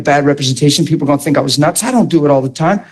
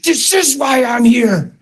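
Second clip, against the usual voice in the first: slow shout; 5 semitones higher, slower than usual. Retold or imitated. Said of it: "And I was like".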